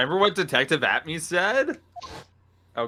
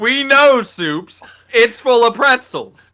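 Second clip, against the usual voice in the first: loud teasing; 5 semitones higher, 8 dB louder, slower than usual. Real, not acted. Ribbing friend for eating.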